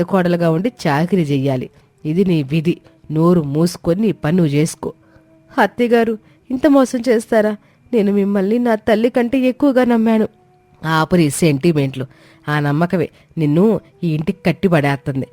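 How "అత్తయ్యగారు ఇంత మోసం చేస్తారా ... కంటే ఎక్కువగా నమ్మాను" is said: put-on high, hurt young bride, near tears; a betrayed young wife asking in disbelief; hurt daughter-in-law. Komali confronting her mother-in-law, high and hurt.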